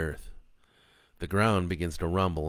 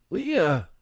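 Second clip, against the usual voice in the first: louder, higher desperate call of "Leah!"; shouting name; 12 semitones higher, 6 dB louder than usual. A narrator's reading. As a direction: yell "Leah!" in panic. Calling wife after crash.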